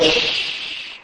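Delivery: soft unvoiced shh, barely there; hushing whisper. Father hushing his weeping son with a whispered shh. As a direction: hush him gently like a worried father.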